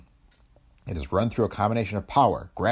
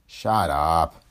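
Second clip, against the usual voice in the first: gruff, friendly affection; affectionate; 3 semitones lower, 3 dB louder than usual. A narrator's reading. Boss silencing his self-blaming friend, affectionate. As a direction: brush him off fondly. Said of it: "Quaid said affectionately".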